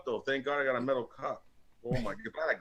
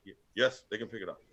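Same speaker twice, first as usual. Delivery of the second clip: lightly voiced friend; 5 semitones lower, faster than usual. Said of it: "Are you saying this warrior voice?".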